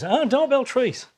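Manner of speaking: slow, high dog's happy thought; delighted dog. Retold or imitated. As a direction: play the dog pleased by the idea. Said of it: "he goes".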